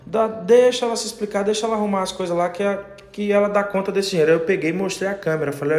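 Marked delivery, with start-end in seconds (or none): 0.1-4.3 lightly voiced wife, higher, feigning innocent calm; a hint of the wife playing it cool while guilty; wife faking calm to cover her theft, lightly voiced higher; brazen wife. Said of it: "na maior cara de pau".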